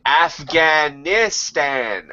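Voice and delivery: very slow, drawn-out Afghanistan; father correcting his son, slow and weary; exasperated dad. Retold or imitated. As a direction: spell it out to a dim child. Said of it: "he said".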